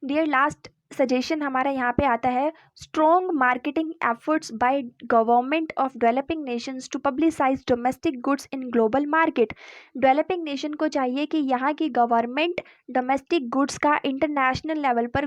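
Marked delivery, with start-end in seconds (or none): 2.8-9.5 slow, even dictation of the heading; dictating pace for notes; slow heading read. Acted. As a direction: read it out slowly so students can note it down. Reads the last heading slowly.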